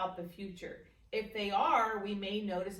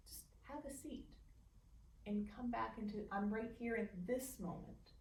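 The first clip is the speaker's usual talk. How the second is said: soft, whispered self-talk; 3 semitones higher, 6 dB quieter than usual. Shown as a demonstration. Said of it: "you can say".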